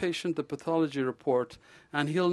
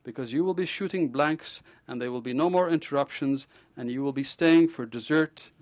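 louder, relishing the joke; punchline delivery; 4 semitones higher, 5 dB louder than usual. Acted. Ghosh joking with the patient about fatherhood, loud and gleeful. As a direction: savor the punchline.

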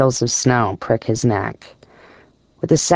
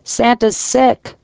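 excited shout; 9 semitones higher, slower than usual. A narrator's reading. Man at the door announces a visitor, mock shouting. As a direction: shout it slowly in a high character voice.

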